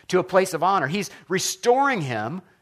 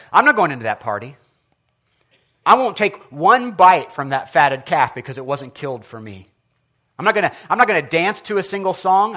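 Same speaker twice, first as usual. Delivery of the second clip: sulky refusal; 2 semitones higher, 5 dB louder than usual. Retold or imitated. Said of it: "the older brother was angry and refused to go in".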